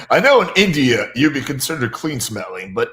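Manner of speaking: laughing. Real, not acted. Teasing joke with laughter.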